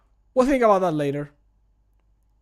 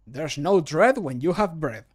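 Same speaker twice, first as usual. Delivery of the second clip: louder, punchy character read; character voice line; 6 dB louder than usual. Acted. Streamer records a cheerful bread line, bold character read. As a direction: sell the bread rhyme boldly. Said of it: "recording voice line takes".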